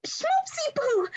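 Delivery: high, slow, drawn-out sweet greeting; excited greeting. Acted. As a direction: gush it out to your sweetheart. Celia greets Mike.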